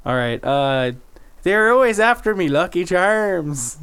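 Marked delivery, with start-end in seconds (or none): 1.4-3.8 hammed-up Irish accent, dragging out Lucky Charms; a mock cereal-box leprechaun Irish brogue. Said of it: "Give me an Irish".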